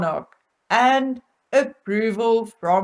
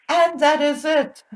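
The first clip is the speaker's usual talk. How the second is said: laughing; 3 semitones higher than usual. Real, not acted. Shocked laugh at the news.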